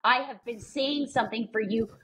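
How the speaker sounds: slow, emphatic mock child's complaint; measured, worked-up child imitation; imitating frustrated son. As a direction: play an indignant kid spelling out every word. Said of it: "he'll literally be like".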